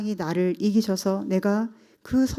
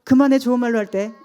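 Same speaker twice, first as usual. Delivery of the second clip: louder mock telling-off; imitated scolding; 5 semitones higher, 7 dB louder, faster than usual. Exasperated mother to her child, imitated scolding. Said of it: "이렇게 다그치는 거예요".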